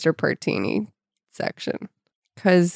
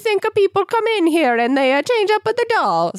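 much higher hammed-up Italian shopkeeper accent; exaggerated Italian accent, pitched way up; Mister Partini's Italian accent; 12 semitones higher than usual. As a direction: play the fussy old Italian toymaker, high and sing-song. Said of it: "This is the kind of accent I can handle".

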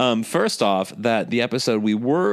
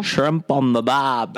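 put-on Australian accent; slower than usual. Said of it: "Australian one".

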